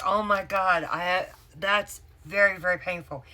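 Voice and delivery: high, loud start, easing off; retold pained protest. Patient retelling her reaction to the doctor, pained protest.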